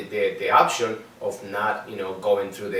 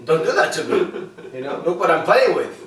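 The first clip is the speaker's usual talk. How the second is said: higher, louder retold protest with a laugh; joking mock plea; 6 semitones higher, 5 dB louder than usual. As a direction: playfully protest to the screeners, voice raised. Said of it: "I said, "Guys".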